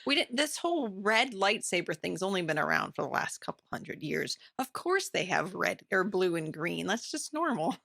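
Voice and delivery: mock him breezily, barely changing voice; lightly voiced confused old man. Podcaster imitating the confused old Sith character, lightly mocking. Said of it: "He's like".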